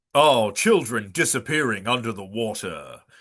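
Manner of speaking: bad, hammed-up, sensational narrator voice. Retelling how a show's episodes open: terrible Jeremy Wade impression. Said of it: "that's a terrible Jeremy Wade impression".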